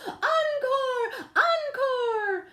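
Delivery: high, bright cheering call; crowd cheering. A narrator's reading.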